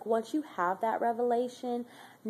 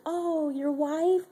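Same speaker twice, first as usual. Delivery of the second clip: surprised question; 7 semitones higher, much slower than usual. Retold or imitated. Asking resident about his love.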